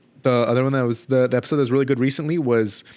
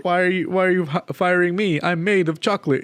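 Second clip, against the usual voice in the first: mock whine; 6 semitones higher than usual. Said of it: "And he's like".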